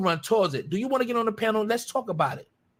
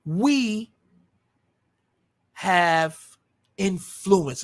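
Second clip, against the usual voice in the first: "have" set apart by pauses; deliberate pauses either side of "have"; stress on "have"; much slower than usual. Real, not acted. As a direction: weigh "have" as a word on its own, pausing around it. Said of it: "And I say have".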